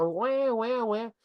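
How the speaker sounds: high mock baby wail; baby crying. Lecturer imitating a crying baby for his students, mock wail. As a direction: imitate a newborn's cry, lightly. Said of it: "a criança começa a chorar".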